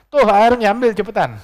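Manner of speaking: loud, high-pitched hurry-up call; urgent urging. Acted. Child telling the men to take the water, urgent call. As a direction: call out sharply to get them moving.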